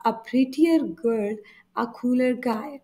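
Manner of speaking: prettier drawn out very slowly and clearly; slow demo. Shown as a demonstration. Teacher repeats the example slowly for students. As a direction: stretch out a prettier girl for the learners. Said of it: "teacher demonstrates the comparative form".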